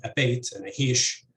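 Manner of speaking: "abate" and "ahish" stressed on "bate" and "hish"; end-stressed "abate", "ahish"; second-syllable stress. Shown as a demonstration. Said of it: "stress the second syllable compared to".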